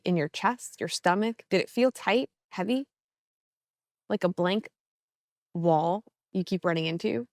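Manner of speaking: calm, measured meditation voice with long pauses; guided meditation. Acted. Coach easing listeners into a mindful walk, guided meditation. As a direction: guide them gently through breath and steps.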